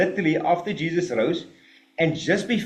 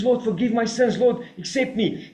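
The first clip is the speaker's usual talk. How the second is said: penitent prayer; 5 semitones higher than usual. Retold or imitated. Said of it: "He says".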